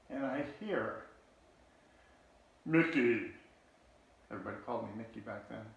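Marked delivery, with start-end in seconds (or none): 2.6-3.3 calling out. Retold or imitated. Brother calls from above.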